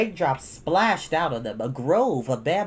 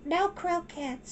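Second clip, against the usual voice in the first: put-on very high, slow child's refusal; little girl voice; 4 dB quieter, much slower than usual. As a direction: draw it out like a stubborn toddler.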